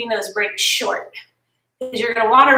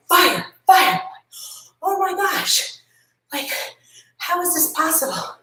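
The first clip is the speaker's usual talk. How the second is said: higher, startled cry; alarmed; 5 semitones higher than usual. Retold or imitated. Mom startled by the smoke alarm, voice jumping up.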